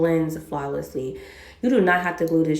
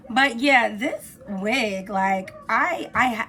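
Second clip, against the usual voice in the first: hoarse voice from a cold; rough, worn-out voice. Real, not acted. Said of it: "I'm hoarse".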